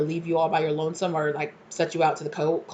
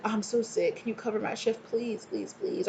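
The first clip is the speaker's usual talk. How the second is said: mock sick whine; 5 semitones higher, 7 dB quieter than usual. Mock coworker faking sickness.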